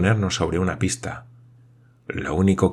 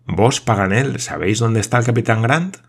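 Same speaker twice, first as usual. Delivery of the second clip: lightly raised astonished question; mild exclamation; 4 semitones higher, 3 dB louder than usual. Acted. Glenarvan astonished that Paganel knows, mild exclaiming. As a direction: press him, half amazed. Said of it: "exclamó éste".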